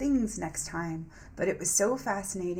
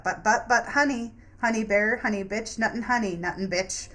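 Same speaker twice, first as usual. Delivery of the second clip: higher, louder teasing put-on voice; sneering honey-voiced mockery; mocking sing-song taunt; 4 semitones higher, 5 dB louder than usual. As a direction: taunt them in a sugary mock voice.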